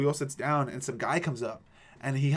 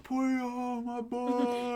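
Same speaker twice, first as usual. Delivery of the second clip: cheering on a friend; 10 semitones higher, 4 dB quieter, much slower than usual. Retold or imitated. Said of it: "we were like".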